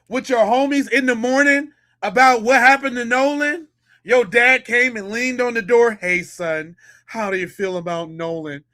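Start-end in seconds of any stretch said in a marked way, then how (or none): 5.9-8.6 lower, softer mock dad voice; calm dad. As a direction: play a mellow dad leaning in the door. Mimics stepdad asking son.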